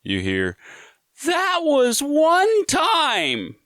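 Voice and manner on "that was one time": very high, loud, stretched-out yell; drawn-out high holler, each word stretched; hollered retort from afar. Retold or imitated. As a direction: yell back slowly from way down the hall. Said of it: "from down the run".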